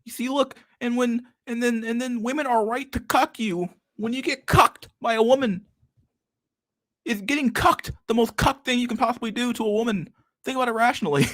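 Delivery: Jordan Peterson impression. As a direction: parody a grave self-help lecturer rambling. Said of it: "Like, Jordan, please".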